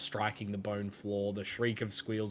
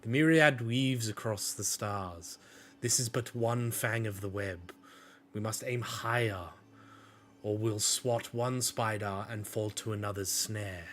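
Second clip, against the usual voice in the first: calming Lyra. Acted. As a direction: gently talk the captains down. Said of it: "calms them a little bit".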